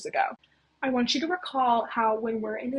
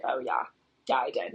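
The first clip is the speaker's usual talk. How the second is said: Van Helsing; 2 semitones higher than usual. Retold or imitated. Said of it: "And Van Helsing's like".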